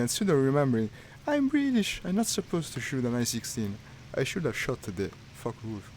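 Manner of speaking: loud self-scolding, pitch leaping high on British; exasperated shout. Real, not acted. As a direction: berate yourself at full volume. Scolding himself over wrong side.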